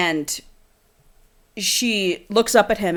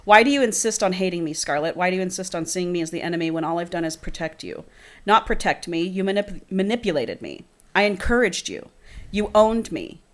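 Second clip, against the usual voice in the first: reading a romance novel aloud, a bit softer; dramatic book reading; 4 dB quieter than usual. Acted. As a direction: read the scene like an audiobook.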